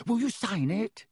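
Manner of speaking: eager fan begs a signature. A narrator's reading. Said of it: "said Colin eagerly".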